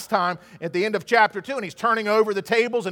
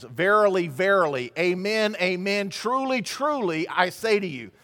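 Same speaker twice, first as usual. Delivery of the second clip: "verily, verily, amen, amen, truly, truly" in insistent doubled beats; triple emphasis. Acted. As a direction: hammer each pair, "verily", "amen", "truly", word by word. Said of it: "That is a triple emphasis".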